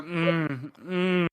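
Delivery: muffled pleasured hums; steamy moans. Acted. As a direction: moan as if mid-embrace. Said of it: "you just hear a".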